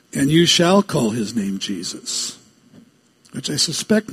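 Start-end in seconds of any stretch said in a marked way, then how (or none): 0.1-2.3 "shall" leaned on, rest of the line lower; stress on SHALL. Shown as a demonstration. Preacher giving the angel's command to Joseph, stressing "shall". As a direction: put the weight on "shall". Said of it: "put the emphasis on the right syllable".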